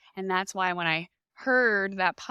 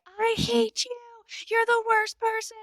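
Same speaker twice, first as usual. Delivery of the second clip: high, louder retold scream; screaming at nurse; 4 dB louder than usual. Mother in pain yelling at her nurse, mock scream. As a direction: hurl it at her, half-mock. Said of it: "And I am screaming".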